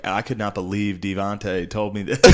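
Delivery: slow, lightly hammed-up confessional; mock reality-TV confessional. Cohost imitating a post-show confessional to camera, mock disbelief. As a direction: dish to camera like a reality contestant. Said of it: "sitting down in front of the camera like".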